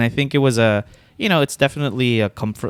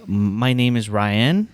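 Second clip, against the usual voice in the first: slow Filipino-accented introduction; careful Filipino-accented English; much slower than usual. Shown as a demonstration. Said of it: "went into full accent mode".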